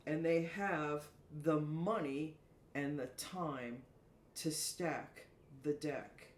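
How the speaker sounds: slow, measured poetic reading with pauses; soliloquy recital. Acted. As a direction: recite your own verse, drawing out each phrase. Reads her own soliloquy aloud.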